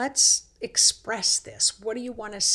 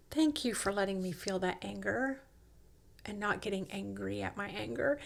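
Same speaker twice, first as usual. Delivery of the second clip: softer, gently grateful; sweet thanks; 2 semitones lower, 7 dB quieter, faster than usual. Acted. Body thanking her for letting it feel anger, sweet and soft. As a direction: offer soft, sincere thanks. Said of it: "Your body's so sweet".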